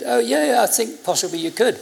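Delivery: high-pitched retold eagerness; eager reply. Answering the man at the stand, high and eager. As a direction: jump up in pitch on the yeahs, then ease down.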